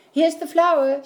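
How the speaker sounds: Jack's high excited shout. A narrator's reading. Boy shouts to his mother, proud of the flour, loud and high. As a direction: shout it out, thrilled to have it. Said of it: "shouted Jack".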